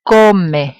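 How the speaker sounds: Come, Spanish, weight on the CO; penultimate stress. Shown as a demonstration. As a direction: stress the first syllable of Come. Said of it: "Look, second to last".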